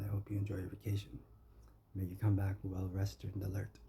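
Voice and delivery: quick whisper. Real, not acted. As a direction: hiss the wish out under the breath. Repeats the wish, whispered.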